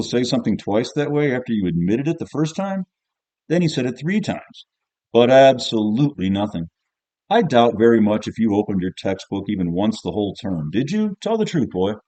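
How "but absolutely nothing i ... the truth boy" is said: cross-examine the pupil, pitch rising on the question; old schoolmaster badgering a boy; scolding old teacher. Narrator plays the old teacher.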